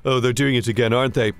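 resigned aside. Acted. Aside after being bleeped.

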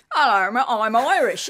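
lightly hammed-up English accent; mock English-accented hello. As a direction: introduce yourself in a put-on English accent. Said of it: "telling it in an English accent".

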